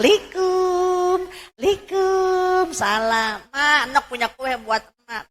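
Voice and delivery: high sing-song greeting, drawn out; a daughter calling likum at the door; voicing the daughter. A daughter visiting her mother, high sing-song greeting.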